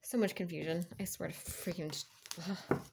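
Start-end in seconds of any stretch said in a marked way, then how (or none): 2.7-2.8 short exasperated "ugh"; exasperated groan. Real, not acted. Reader fed up with the confusion, exasperated groan. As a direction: let out a brief sigh of frustration.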